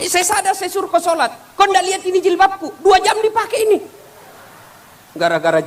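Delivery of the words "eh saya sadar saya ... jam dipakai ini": high, loud, heated retort; rising squabble, getting louder; heated bickering. Acted. Quarrel escalates. (bertengkar makin keras dan tinggi)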